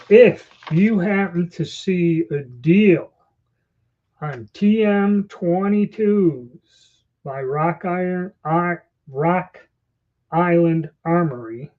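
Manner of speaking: words slurred around new dentures; talking through new false teeth. Real, not acted. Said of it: "I got my new teeth in. It's hard to talk sometimes".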